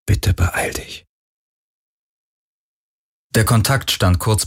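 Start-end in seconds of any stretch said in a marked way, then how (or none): 0.0-1.0 hushed, whispered inner plea; pleading under the breath; urgent thought. A narrator's reading. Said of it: "dachte sie".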